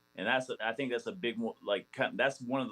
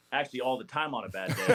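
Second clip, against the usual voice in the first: chuckling through the punchline; laughing; faster than usual. Real, not acted. Player laughing while telling a story about his old manager. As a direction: laugh as you admit it. Joking about coach's bad days.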